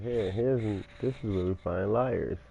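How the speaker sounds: loud, showy tour guide announcing an exhibit. Pretend. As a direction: present it like a museum tour guide. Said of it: "like a tour guide".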